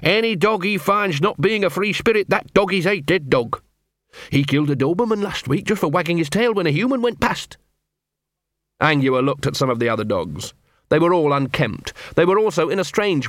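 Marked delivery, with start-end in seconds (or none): 0.0-7.6 higher, hushed awe and dread; awed retelling. Retold or imitated. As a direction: tell it like a ghost story. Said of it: "He told 'em".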